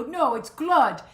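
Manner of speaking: put-on slow French-accented correction; playing the French husband, drawn out; imitated French accent. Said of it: "he has a very thick".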